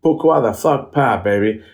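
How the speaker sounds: hammed-up French stage host, slow and breezy; mock French compère. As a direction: play a cocky French MC winding up a crowd.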